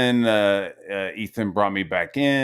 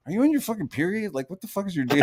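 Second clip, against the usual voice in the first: retold jab; 10 semitones higher, faster than usual. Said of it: "I was like".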